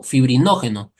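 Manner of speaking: fibrinógeno dicho más fuerte y marcado; stress on fibrinógeno. Shown as a demonstration. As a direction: recalca la palabra fibrinógeno. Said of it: "¿Por qué les recalco esta palabra?". (subraya fibrinógeno para los alumnos)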